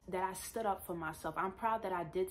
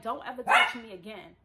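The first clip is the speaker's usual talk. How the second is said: higher, louder mock yell; retold scream; 4 semitones higher, 6 dB louder than usual. Woman replaying warning to groper, mock yell. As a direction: retell a screamed warning, raised but controlled. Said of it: "I'm screaming".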